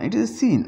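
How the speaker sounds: seen said with a plain s, not sh; soft c as s. Shown as a demonstration. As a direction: it is a seen with a clear s sound. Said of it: "इसको शीन नहीं बोलना". (सी को स की आवाज़ में)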